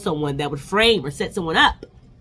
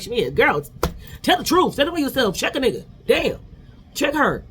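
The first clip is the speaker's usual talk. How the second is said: pleading urge; 7 semitones higher than usual. Retold or imitated. Urging Shamea in an imagined quote.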